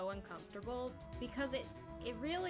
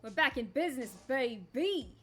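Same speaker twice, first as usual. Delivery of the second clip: loud hyped declaration; excited; 8 dB louder than usual. Real, not acted. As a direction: pump it up loudly. Excited return to game.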